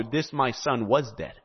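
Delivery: hushed echo of "this, my son, was dead"; softened. Shown as a demonstration. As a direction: let "this, my son, was dead" fall quiet and reflective. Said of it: "Do you recognize the symbolism of that?".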